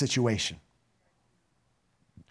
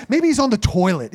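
mocking jab, louder; ridiculing; 2 semitones higher, 4 dB louder than usual. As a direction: throw the joke at them loudly. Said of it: "He starts ridiculing them".

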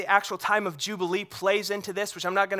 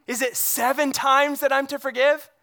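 louder, rising eager ask of "seven times"; eager question; 4 semitones higher, 4 dB louder than usual. Retold or imitated. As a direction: push the offer up hopefully. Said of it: "and he goes".

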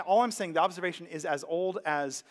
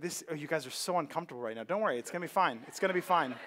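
reassuring; 2 semitones lower, 3 dB quieter, faster than usual. Real, not acted. Reassures uneasy congregation, laughing.

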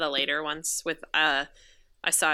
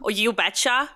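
higher, put-on Minnesota lilt; Minnesota accent; 4 semitones higher than usual. Shown as a demonstration. Local showing co-host a saying, Minnesota accent. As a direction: show off a folksy Minnesota accent. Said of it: "the Minnesota trope".

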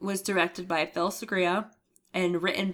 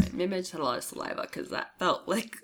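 speaking past cough drop bits; mouth full; 3 semitones higher than usual. Real, not acted. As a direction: mouth full while talking. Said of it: "my mouth is full of crap".

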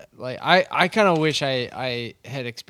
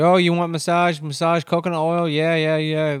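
put-on loud, higher Asian accent hawking massage; 7 semitones higher, 7 dB louder than usual. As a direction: play the Asian-accented beach masseuse calling out. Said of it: "I just went to an Asian accent".

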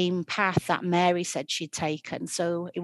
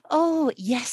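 sickly sweet; 8 semitones higher, 6 dB louder than usual. Acted. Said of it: "put on her sickliest, like, sweetest".

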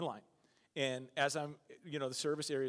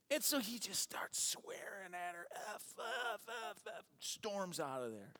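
hushed retelling; 4 semitones higher, 6 dB quieter than usual. Retold or imitated. Retelling swearing.

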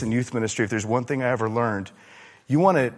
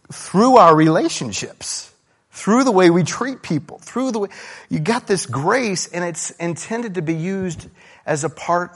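high, loud preaching build; fiery sermon climax, pressing the congregation; full-force preaching; 7 semitones higher, 6 dB louder than usual. Acted. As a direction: drive the point home from the pulpit.

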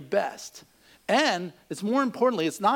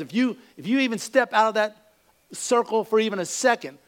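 raised-pitch mock warning; furious biker threat; 3 semitones higher than usual. Biker warning the driver to stay put, mock furious. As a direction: threaten him with hammed-up anger. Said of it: "just furious at him".

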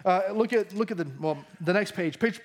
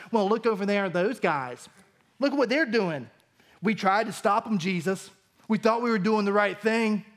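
lightly voiced tattletale John; a hint of a whiny disciple defending himself; understated mock tattletale; John impersonation. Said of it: "That's my best John impersonation".

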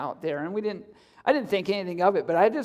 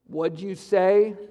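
low harsh voice; slower than usual. Retold or imitated. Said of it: "this deep, gruff voice".

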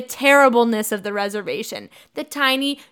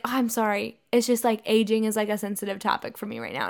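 softer, quick excuse tailing off; mock apology; 3 semitones lower, 6 dB quieter, faster than usual. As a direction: back down sheepishly, imitating her. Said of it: "later she's like".

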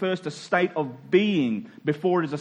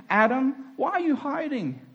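God calling Adam; 5 semitones higher than usual. Acted. God comes in.

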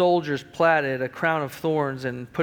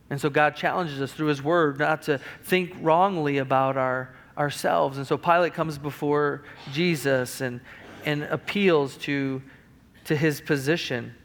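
normal talking voice

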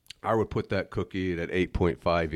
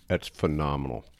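chewing while talking; 입에 음식을 물고 말하기; mouth full; 3 semitones lower, 4 dB quieter than usual. Real, not acted. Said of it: "I'm chomping away here in the mic".

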